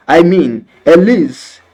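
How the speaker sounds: high, loud bleating laugh; bleating sheep. Pretend. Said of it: "my impression of a ship getting fleeced".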